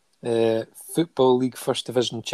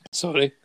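coughing fit; 7 semitones higher, 5 dB louder than usual. Real, not acted.

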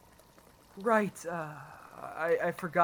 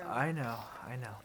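soft, lower, soothing voice; gentle consoling; 5 semitones lower, 7 dB quieter than usual. Acted. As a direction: comfort a grieving daughter quietly. Father consoles grieving daughter.

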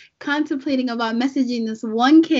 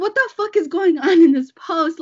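higher, louder retold outburst; angry outburst; 3 semitones higher, 4 dB louder than usual. Recalling an outrageous Facebook post, angry disbelief. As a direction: retell your outraged disbelief. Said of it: "it made me so angry".

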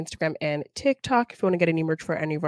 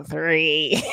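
Michael Douglas voice. Pretend. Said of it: "give me a Michael Douglas".

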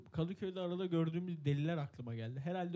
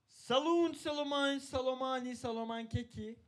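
higher nonsense words, falling and fading; goofy sign-off gibberish; silly singsong; 5 semitones higher than usual. Pretend. Playful nonsense outro chant. (saçma sapan şarkımsı kapanış)

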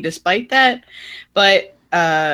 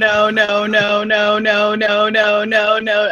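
laughing protest; 3 semitones higher than usual. Real, not acted. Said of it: "I'm out of breath".

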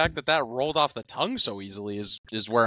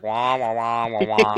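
Snoopy teacher wah-wah; 4 dB louder, slower than usual. Retold or imitated. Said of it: "you know when Snoopy talks".

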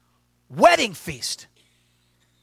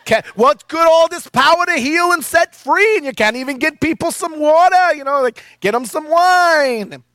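very high, loud scolding mother voice; mother scolding her son at the wedding, high and loud; nagging Jewish mama; 6 semitones higher, 4 dB louder than usual. Retold or imitated. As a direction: nag your son like an overbearing Jewish mom. Jewish mom voiced in story.

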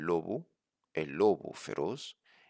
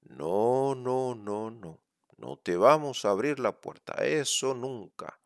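little pig voice; 4 semitones higher than usual. Acted. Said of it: "ellos respondieron".

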